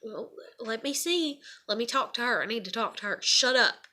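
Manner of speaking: mock telling-off, punched at the end; imagined snappish retort. What she wanted to say to dad, snappish. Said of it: "is what I wanted to say".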